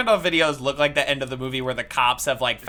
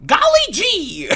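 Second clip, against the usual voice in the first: high hammed-up title call; mock movie announcer; 4 dB louder than usual. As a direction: announce it like an old trailer.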